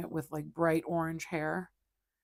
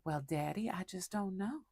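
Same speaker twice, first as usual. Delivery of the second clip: put-on Southern belle accent; 4 dB quieter than usual. Kitten's voice begging owner for a treat in a soft Southern belle accent. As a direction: sweet-talk Daddy like a Southern belle asking for treats. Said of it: "we would do little Southern belle".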